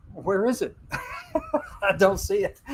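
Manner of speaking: high, laughing tease; mock-searching with a giggle; teasing laugh. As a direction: joke through a laugh. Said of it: "I said".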